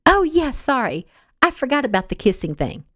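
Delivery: feigned sorry, innocent tone; lightly mocking fake apology. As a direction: pretend mortified, teasing. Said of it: "made a show of".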